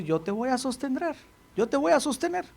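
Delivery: hushed, gentle promise of support; soft reassurance. Acted. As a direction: hold them up gently. God's promise voiced.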